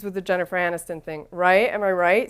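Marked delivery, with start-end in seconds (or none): 1.3-2.3 put-on frat boy intonation. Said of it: "with frat boy intonation".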